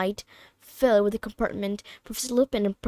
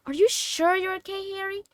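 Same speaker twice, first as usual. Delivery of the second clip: higher, worried question; anxious concern; 9 semitones higher than usual. A narrator's reading. Hermione checking on Harry, higher and anxious. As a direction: ask gently, worried. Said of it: "watching Harry anxiously".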